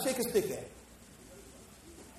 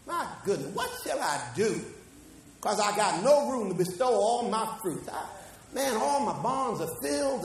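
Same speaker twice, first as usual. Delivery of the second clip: rich farmer musing. Retold or imitated. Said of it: "the man thought within himself".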